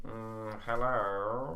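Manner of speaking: lightly voiced Tim Curry. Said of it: "how do you speak?".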